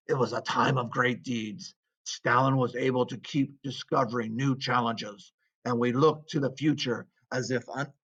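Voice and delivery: lightly put-on Russian accent, proud party member; a touch of a Russian accent, earnest. Teacher voicing a Communist Party member, light Russian accent. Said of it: "I'm not doing my Russian voice anymore".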